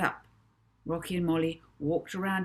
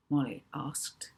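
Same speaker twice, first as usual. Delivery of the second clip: ordinary delivery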